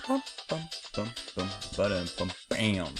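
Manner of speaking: soft "bum bum" beat counting; vocalized rhythm. Shown as a demonstration. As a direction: tap out the timing with your mouth, quietly. Vocalizing the hit timing beat.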